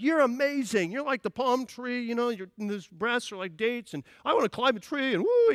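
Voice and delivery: a preacher hams up the keen new husband; excited husband. Retold or imitated. Preacher voicing the eager husband, hammed-up excited. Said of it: "He's excited".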